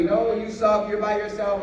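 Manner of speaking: a hint of a sneering inner voice; inner critic voice. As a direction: lightly voice the doubting voice in your head. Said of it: "this little voice on my shoulder".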